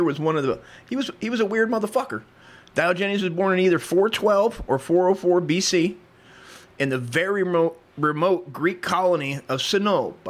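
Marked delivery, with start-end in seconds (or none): 2.7-10.3 lightly put-on Italian accent. Narrator reads a philosopher's birth, slipping into mock Italian accent. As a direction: read it with a touch of mock Italian. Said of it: "I'm doing a fucking wop accent".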